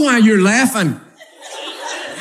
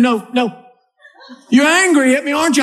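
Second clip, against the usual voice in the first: higher, worried coaxing; pleading wife; 5 semitones higher, faster than usual. Acted. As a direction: press him gently to admit it. Wife voiced in marital quarrel.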